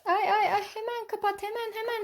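high, hushed mock fretting; pretend urgency. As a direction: hurry the child with repeated little urgings. Pretend hurry to close nappy.

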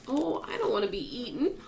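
high, plaintive wail; frightened high-pitched whine. A narrator's reading. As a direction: wail in dread. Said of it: "wailed the Earthworm".

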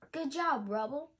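loud cheer of praise; shout. Acted. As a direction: call out the praise. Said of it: "Ryder shouted".

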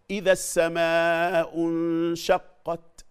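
high, slow chant with a released breathy t ending "انشقت"; recited with hams. Shown as a demonstration. Teacher demonstrating hams, melodic recitation with breathy t in "انشقت". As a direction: chant it long, puff the ت of "انشقت". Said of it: "مش عايزين نبالغ في الهمس".

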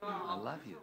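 mean it, say it softly; tender. Shown as a demonstration. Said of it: "it's gotta be the tone of voice".

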